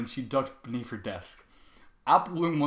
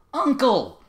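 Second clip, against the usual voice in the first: loud; 11 semitones higher, 10 dB louder than usual. Acted. Bloom scolds Trevor.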